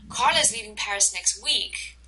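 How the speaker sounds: emphasize the time, "next week", at the end; stress on NEXT WEEK. Shown as a demonstration. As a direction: land the sentence's weight on "next week". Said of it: "I'm emphasizing time".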